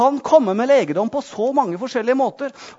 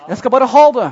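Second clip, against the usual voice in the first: louder, emphatic take on ha; loud declaration; 5 dB louder, faster than usual. Real, not acted. Preacher urging the congregation to claim healing, loud emphatic. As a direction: push it out with force.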